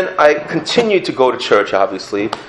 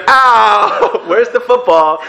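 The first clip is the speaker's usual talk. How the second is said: mock yelp; 11 semitones higher, 3 dB louder, much slower than usual.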